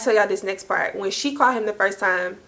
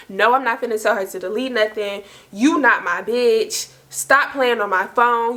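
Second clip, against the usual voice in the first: retold no-nonsense refusal; straight, blunt retort. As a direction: lay it down bluntly, word by word. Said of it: "really straight like that".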